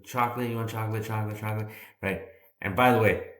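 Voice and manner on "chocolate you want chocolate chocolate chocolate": put-on kid vendor. Kids selling chocolate to truck.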